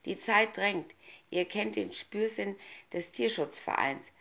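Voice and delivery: high, hissing wicked witch. Acted. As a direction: hiss the threat like a witch. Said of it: "zischte die Hexe".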